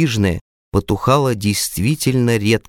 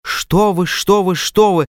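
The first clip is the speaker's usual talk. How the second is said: flustered mumbling; 9 semitones higher than usual. A narrator's reading. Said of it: "забормотал я".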